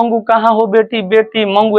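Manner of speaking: high-pitched mock calling; imitated crying out. Mother crying out for Mangu, imitated high calling. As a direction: call for her high, mildly, as a retelling. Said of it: "ऐसे चिल्ला रही है".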